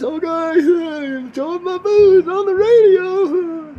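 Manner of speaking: high, loud laughing reply; laughing mock agreement. Host agreeing to Spotify's joke while laughing loudly. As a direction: giggle through the agreement.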